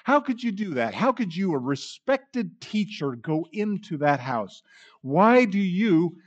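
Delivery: grumbling critics mocking Jesus with disdain; scornful Pharisees. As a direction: sneer at the teacher with hammed-up disdain. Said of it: "you can hear the scorn, you can hear the disdain and the self-righteousness".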